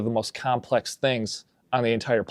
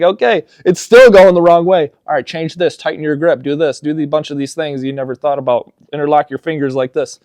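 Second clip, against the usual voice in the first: exasperated beginner golfer; 4 semitones higher, 8 dB louder than usual. Retold or imitated. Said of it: "And you're d-, like".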